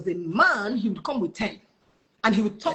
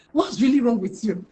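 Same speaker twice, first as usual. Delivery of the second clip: louder, scolding imitation; angry recruiter; 3 semitones higher, 5 dB louder than usual. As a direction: act out an exasperated telling-off. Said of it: "so angry with me".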